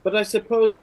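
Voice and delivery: looking down on him with scorn; scornful warrior. Acted. Brynjar scorns the Marquis.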